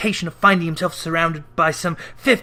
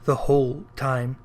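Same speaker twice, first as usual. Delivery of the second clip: weary ghost; 5 semitones lower, 4 dB quieter than usual. Acted. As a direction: lament endless wandering. Ghost voice held.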